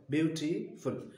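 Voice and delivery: ब्यूटीफुल said slowly with its three syllables apart; slow syllable demo. Shown as a demonstration. Teacher confirming three syllables to class, slow syllable demo. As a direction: draw ब्यूटीफुल out gently, beat by beat. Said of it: "three syllable हैं".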